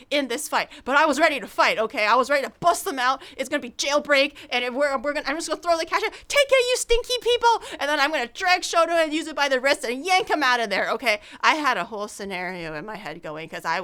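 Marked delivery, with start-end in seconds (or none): 6.3-7.6 much higher, louder taunt; imagined showdown with the bar staff; mock furious yell. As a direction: throw the cash and sneer.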